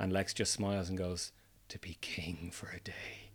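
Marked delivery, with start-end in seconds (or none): 1.7-3.3 very soft, slow, gleeful, menacing villain whisper. Speaker recounts a scene, quoting Lex Luthor's answer to Superboy, imitating his menacing glee. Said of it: "with such menace and such glee".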